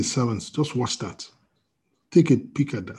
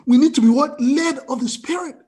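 preaching call; 11 semitones higher, 4 dB louder than usual. Real, not acted. Preacher calls out to congregation.

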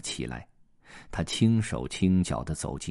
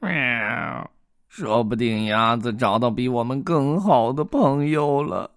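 sad cat; 5 semitones higher, 4 dB louder than usual. Acted. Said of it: "猫悲伤地说".

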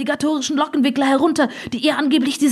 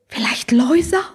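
whispered, rising question; hushed guess. Acted. Oma guesses who is knocking at night, whispered. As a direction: float the name in a whisper.

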